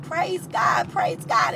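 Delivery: high cry, then breathless whispered praise; grateful praise. Retold or imitated. Homeless lady thanking God for the plates, high then whispered. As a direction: overcome with thanks, the voice gives out. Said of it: "the lady was like".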